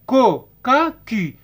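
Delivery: "كو. كا كي" as separate K syllables; hard K on each of "كو. كا كي"; teacher drilling "كو. كا كي". Shown as a demonstration. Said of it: "نقروها سي برونونس كا".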